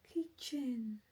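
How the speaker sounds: a hint of a toddler answering; imitating a little boy. Retelling the boy's answer about what to watch, mild child voice. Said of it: "Sabi niya".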